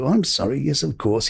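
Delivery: lightly imitating a sweetly obliging Queen; sweet apology. The Queen answering her director on set, sweetly apologetic. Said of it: "And she'd be so sweet".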